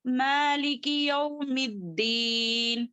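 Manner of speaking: slow, level-toned verse with elongated vowels; Quran recitation. Shown as a demonstration. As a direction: recite measuredly, holding the long syllables.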